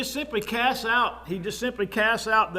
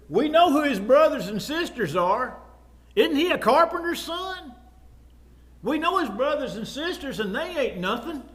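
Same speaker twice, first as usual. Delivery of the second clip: imitating dismissive townsfolk, pitched up; acted scepticism; 4 semitones higher than usual. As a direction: challenge his credentials like a doubting neighbour. Acts out scornful townsfolk.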